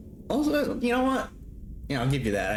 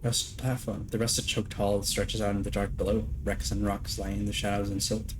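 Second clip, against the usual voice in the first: reading game text. Acted. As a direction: read it like a story narrator. Reads game text aloud.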